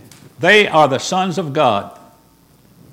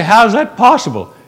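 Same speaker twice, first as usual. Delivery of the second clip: mock incredulous doubter; 7 semitones higher, 8 dB louder than usual. Preacher voices doubting listener.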